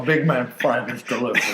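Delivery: talking as if mouth full; mock savouring while chewing; pretend eating. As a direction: mumble through an imaginary hot dog. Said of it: "What you eating there, Hunter?".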